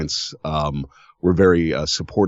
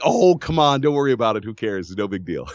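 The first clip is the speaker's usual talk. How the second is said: dismissive reassurance; 2 semitones higher, faster than usual. Retold or imitated. Guest retelling how he reassured host, breezy brush-off. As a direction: wave the worry away, falling in pitch. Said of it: "I'm like".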